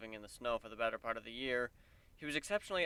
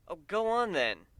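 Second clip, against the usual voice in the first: smiling, higher and louder, slowly; with a smile; 7 semitones higher, 6 dB louder, slower than usual. Acted. Warren gently urging Kuno to show her collar, smiling. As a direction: indulgent and amused, coaxing her to show it. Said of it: "Warren said with a smile".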